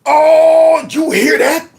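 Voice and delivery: high excited whoop, half laughing; thrilled whoop. Real, not acted. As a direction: cheer her on with a delighted squeal. Thrilled reaction to guest's line.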